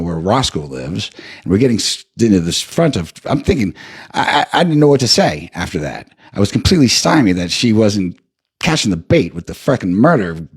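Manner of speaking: ordinary talk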